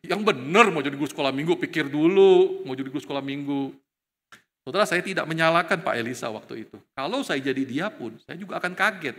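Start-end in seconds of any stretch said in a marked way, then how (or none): 0.0-3.8 surprised pastor. Retold or imitated. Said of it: "Dia kaget".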